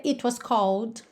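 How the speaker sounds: "it" with a clear T before "was"; T clearly released. Shown as a demonstration. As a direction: mark the T in "it". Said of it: "deixar o T marcadinho mesmo". (T bem marcado em "it")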